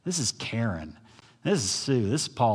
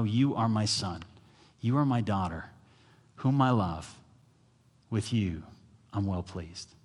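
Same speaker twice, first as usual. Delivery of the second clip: tender father's voice; 2 semitones lower than usual. Retold or imitated. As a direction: speak the Father's blessing gently. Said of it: "Here's what God wants you to know".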